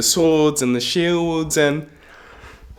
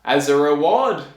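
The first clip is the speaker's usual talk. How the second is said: pompous king. Acted. King setting the tailor a task to kill giants, pompous. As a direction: proclaim grandly with weighty pauses. Plays the king offering reward.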